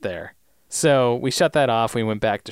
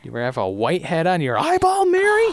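creepy movie quote; 6 semitones higher, 4 dB louder than usual. Retold or imitated. Quoting There's Something About Mary.

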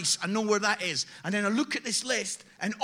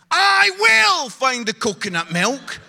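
mock defiant vow; 6 semitones higher, 13 dB louder than usual. Husband's defiant reply.

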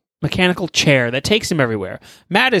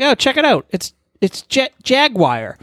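excited pointing; 9 semitones higher than usual. Acted. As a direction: show it off with glee. Logan points out Jet Jaguar.

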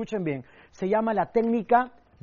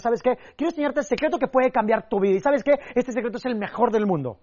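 teasing, raised pitch; teaser pitch; 3 semitones higher than usual. Shown as a demonstration. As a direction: hook them with the secret. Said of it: "le digo a las personas". (voz intrigante, más aguda, que engancha)

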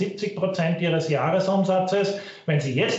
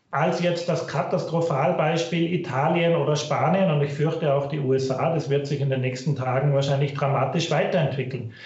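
low quality stream. Real, not acted. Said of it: "Bitte entschuldigen Sie die Tonqualität".

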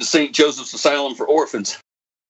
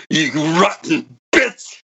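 bitter insult; slower than usual. Acted. Monologue ends with an insult.

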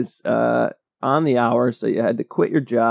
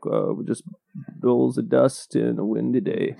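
A singer; 3 dB quieter than usual. Retold or imitated. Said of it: "you really made his voice sound".

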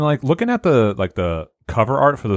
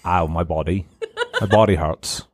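mock sick groan; 5 semitones lower than usual. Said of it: "what do you sound like when you have aids".

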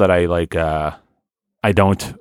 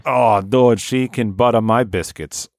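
appreciative Boston bro; Boston accent. Acted. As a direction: gush in a broad Boston accent. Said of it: "interested in pursuing their Boston accent".

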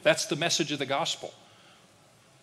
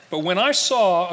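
laughing; 5 semitones higher, 10 dB louder than usual. Real, not acted. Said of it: "okay, strike that".

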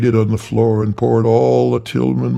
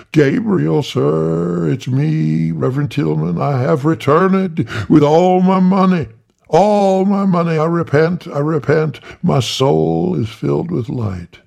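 high, eager little preacher begging the angel; high, fawning small reverend; Tiny Tillman voice; 8 semitones higher, 4 dB louder than usual. Acted. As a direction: pitch it up and plead with the angel. Tiny pleading at church door.

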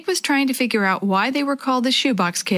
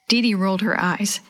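ordinary delivery

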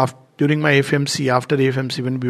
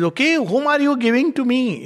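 father's irritated question; 9 semitones higher than usual. Retold or imitated. Father snaps at child.

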